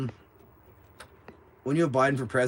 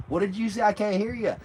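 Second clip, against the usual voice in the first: pretending not to hear; 8 semitones higher than usual. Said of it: "Just pretend like I couldn't hear".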